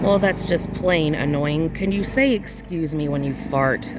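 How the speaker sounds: loud, playful complaint; mock scolding. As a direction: pretend to tell off a noisy plane.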